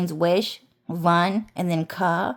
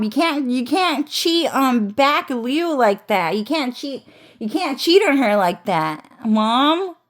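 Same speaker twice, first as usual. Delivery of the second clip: mock scolding; 3 semitones higher than usual. Son scolding his mom for cheating, mock pleading.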